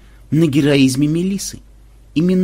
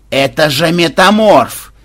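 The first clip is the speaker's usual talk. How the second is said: loud, slow, raised cry; alarmed exclamation; 5 semitones higher, 8 dB louder, slower than usual. Acted. Commander recognizes the strongest pirate ship, exclaiming loudly. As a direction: cry the name out in dismay.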